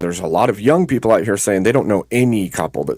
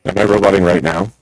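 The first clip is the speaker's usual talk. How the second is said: robot voice; 4 dB louder than usual. Real, not acted. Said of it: "Yes, sir".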